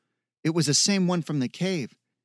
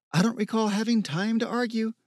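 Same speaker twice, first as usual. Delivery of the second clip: mock-echoing his voice a bit higher; mimicking his tone; 7 semitones higher than usual. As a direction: toss his own words back at him, teasing. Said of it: "mimicking his tone".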